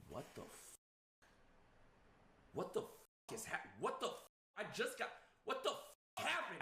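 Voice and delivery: stammering, half-whispered shock that jumps up in pitch; panicked disbelief. Retold or imitated. Telling the friend how he reacted to finding his dogs bloody, panicked stammer.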